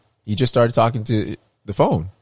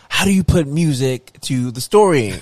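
Bill Cosby impression; 5 semitones higher, 4 dB louder than usual. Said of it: "Sound like Bill Cosby".

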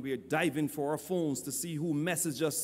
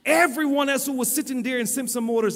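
emphatic preaching; 5 semitones higher, 5 dB louder than usual. Real, not acted. Preacher tells congregation of the long wait, emphatic preaching. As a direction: preach it with rising insistence.

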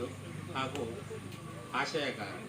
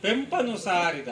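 higher, louder lilting verse recitation; poetry recitation; 9 semitones higher, 12 dB louder, slower than usual. Acted. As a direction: recite it rhythmically to the hall, drawing out the vowels. Recites own poem to audience. (ಲಯಬದ್ಧ ಕವನ ವಾಚನ)

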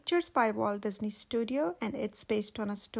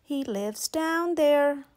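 grinning Cheshire cat; 4 dB louder, much slower than usual. Acted. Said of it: "said a grinning Cheshire cat".

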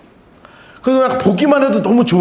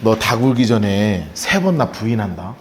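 low, soft, calm foretelling; lightly voiced Jesus, lower and quieter; 12 semitones lower, 5 dB quieter than usual. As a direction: say it gently, knowing the betrayal. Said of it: "뭐라고 하시냐면".

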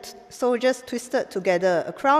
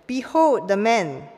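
proclaiming; 5 dB louder, slower than usual. Acted. Pilate presenting Jesus.

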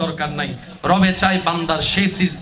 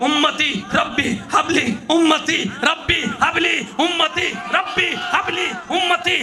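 pleading call of ummati; 6 semitones higher than usual. Retold or imitated. Preacher voicing the Prophet calling for his people, a mild pleading chant. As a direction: call out for your people, rising to a cry. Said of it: "একটা আওয়াজ ভিন্নভাবে শুনবো".

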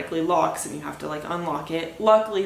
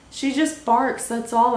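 mimicking dog owner; 6 semitones higher than usual. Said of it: "She's just like".

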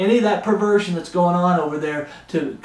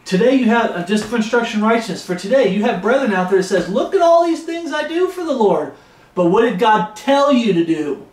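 fired-up preaching, somewhat louder; raised preaching voice; 4 semitones higher, 3 dB louder than usual. Acted. Preacher raising his voice at false converts, louder. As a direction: press the warning on the congregation. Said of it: "I'm sorry raising my voice".

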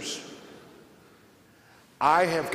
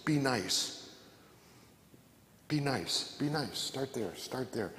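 each be nice softer until nearly hushed; fading plea; 7 dB quieter than usual. Acted. Preacher urging the congregation, fading to a soft plea. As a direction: let the repeats fade away gently.

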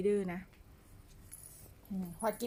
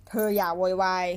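stern, louder no-nonsense warning; firm scolding; 3 semitones lower, 5 dB louder than usual. Real, not acted. Owner repeating the scolding to the pet, firm and louder. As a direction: scold with a sharp edge.

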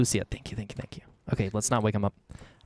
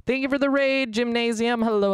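excited thanks; 11 semitones higher than usual. Real, not acted. Streamer thanks a raider.

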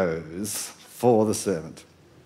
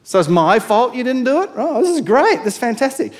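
sarcastic master; 2 semitones higher, 3 dB louder than usual. Retold or imitated. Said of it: "the master's thinking".

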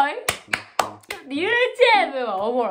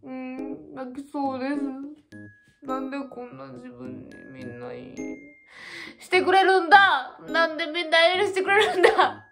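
near tears. Real, not acted. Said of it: "泣いちゃいそう".

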